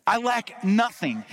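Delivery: emphatic, drawn-out brag; bragging. Retold or imitated. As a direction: imitate David's boast, each word stretched. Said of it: "here's what he's bragging".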